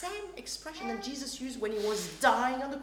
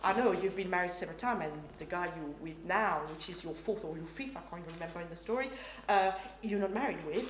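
soft, low, unhurried telling; gentle; 5 semitones lower, 4 dB quieter, faster than usual. Retold or imitated. Jesus gently telling the woman at the well. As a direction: gently lay out the hard truth. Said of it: "Jesus proceeds and he says".

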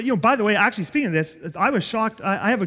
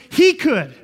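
forceful punch; 4 semitones higher, 8 dB louder than usual. Real, not acted. Preacher's climactic point.

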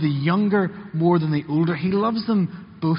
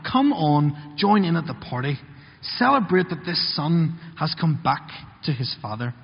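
a touch of a pleading dad; pleading father; 2 semitones higher than usual. Acted. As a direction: coax him warmly to come in. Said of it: "He begs with him".

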